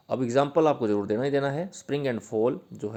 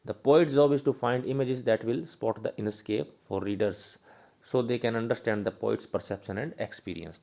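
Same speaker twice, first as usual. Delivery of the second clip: slow dictation; much slower than usual. Shown as a demonstration. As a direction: dictate it so students can write it down. Dictating notes slowly.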